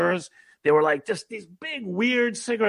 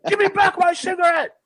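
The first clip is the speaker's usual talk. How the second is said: angry shouting; 11 semitones higher than usual. Retold or imitated. Drunk clubgoer demanding his cigarette back, high indignant yell. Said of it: "And I was like".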